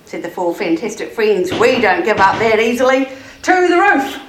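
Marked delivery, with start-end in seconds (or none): 1.5-4.2 determined rallying cry. Acted. Friends rally with bold plan.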